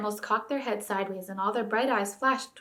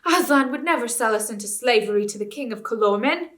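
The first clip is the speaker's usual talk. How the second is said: loud protest; 3 semitones higher, 6 dB louder than usual. A narrator's reading. Beasts protesting.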